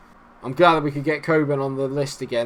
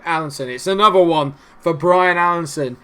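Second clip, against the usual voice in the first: loud, raised goal shout; excited goal call; 5 semitones higher, 8 dB louder than usual. Real, not acted. Gamer yelling as his striker scores, excited. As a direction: call the goal like a commentator erupting.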